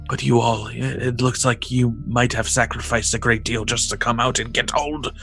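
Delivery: put-on old sage voice. NPC Zelanan speaking.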